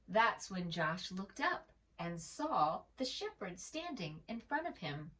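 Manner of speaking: put-on gentle read-aloud voice for children; storybook narration. A narrator's reading. Narrator reading a picture book to young listeners, gentle.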